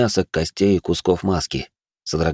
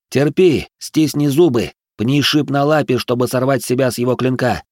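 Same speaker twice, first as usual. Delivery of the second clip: urgent call; 4 semitones higher than usual. Acted. Urging Zora mid-fight.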